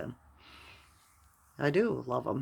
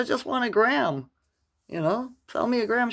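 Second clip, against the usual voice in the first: excited; 10 semitones higher, 7 dB louder than usual. Retold or imitated. Eager plea for mushrooms.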